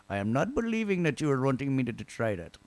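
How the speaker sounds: attempted Indian accent. Shown as a demonstration. Teacher obliges a student's request, Indian accent. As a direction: put on an Indian accent for fun. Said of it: "can you do an Indian accent".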